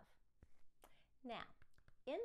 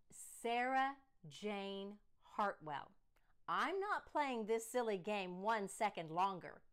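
stern father; 5 dB louder, slower than usual. Acted. Father losing patience.

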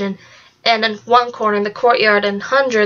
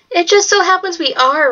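proud; 6 semitones higher than usual. A narrator's reading. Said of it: "with her head raised high".

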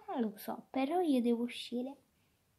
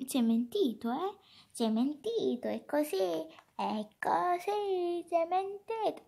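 pretend angry; 2 semitones higher than usual. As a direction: build a mock-angry, stretched complaint. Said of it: "quando sono arrabbiata faccio così".

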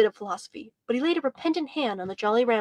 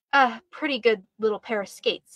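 condescending. Retold or imitated. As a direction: copy the rival's superior tone, understated. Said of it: "in Ralph's condescending tone".

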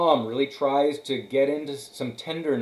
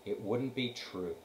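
pitiful; 3 semitones lower, 11 dB quieter than usual. A narrator's reading. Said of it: "she admitted in a pitiful voice".

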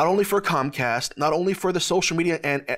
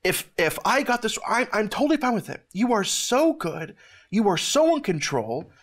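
retelling a heartfelt prayer, pitched higher; emotional prayer; 4 semitones higher than usual. Retold or imitated. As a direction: pray it earnestly, voice close to breaking. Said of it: "I said to the Lord".

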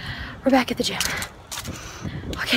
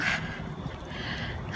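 long tired exhale; breathless sigh; 11 dB quieter than usual. Real, not acted. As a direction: sigh out, spent from running. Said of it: "I can't even talk".

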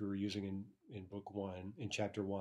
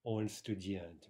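slow Russian example; slower than usual. Shown as a demonstration. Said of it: "in sentences like".

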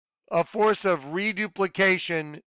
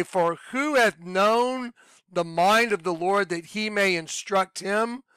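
slow scripture reading. Acted. Reads scripture verse again.

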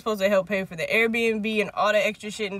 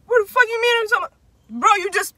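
higher, louder indignant mock protest; retold outrage; 11 semitones higher, 5 dB louder, faster than usual. Retelling a friend confronting him over a fart, indignant. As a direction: fire it off in acted disbelief.

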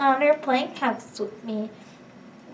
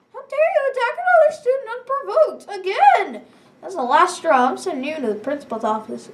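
scolding teacher; 5 semitones higher than usual. Acted. Voicing angry teacher.

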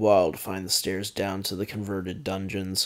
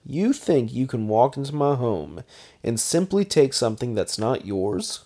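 higher, louder sneering taunt; a cocky baron's higher sneer; mocking vampire baron; 4 semitones higher, 6 dB louder than usual. A narrator's reading. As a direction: needle him about his god. McKinn challenges.

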